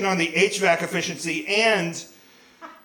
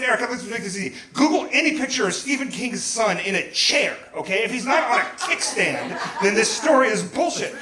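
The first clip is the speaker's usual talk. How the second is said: raised-pitch exasperated argument; retold screaming; 4 semitones higher than usual. Husband settling the Google argument in the car, screaming. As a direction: argue it out in a mock yell. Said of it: "All three of us are screaming".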